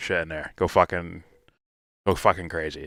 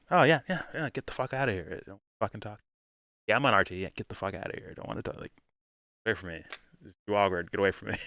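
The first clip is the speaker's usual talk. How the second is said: imitated brush-off, mostly under the breath; mock dismissive; 3 semitones higher, 5 dB quieter, faster than usual. Imitating him fending off normal people, dismissive and awkward.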